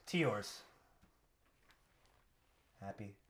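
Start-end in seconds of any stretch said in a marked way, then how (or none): 2.8-3.2 very soft, low, slowing to a whisper; tiny, spent holiday wish; hushed sign-off. Acted. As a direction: let it fade away slowly. Catchphrase fading to near whisper.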